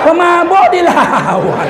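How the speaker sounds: slow and laughing; drawn-out laughing repeat. Real, not acted. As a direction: savor the punchline through a laugh.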